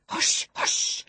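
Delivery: hushed, soothing whisper. A narrator's reading. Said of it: "I whispered".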